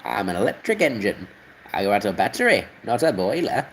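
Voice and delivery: lightly voiced engine, near his own voice; a hint of a proud little engine; engine impression. Engine explaining it runs on batteries, lightly voiced. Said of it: "Okay, that's a bit better".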